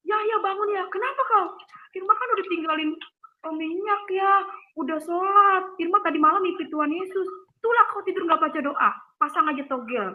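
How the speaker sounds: father scolding. Retold or imitated. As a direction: voice the worried, exasperated father. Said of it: "kata ayah aku gitu kan".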